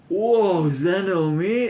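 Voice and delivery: gasp, then high, slowed, gloating surprise; shock without compassion. Shown as a demonstration. Vengeful townspeople see Naomi fallen, shocked and satisfied. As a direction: gasp and savour the sight, pitiless. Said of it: "there's no compassion in that statement".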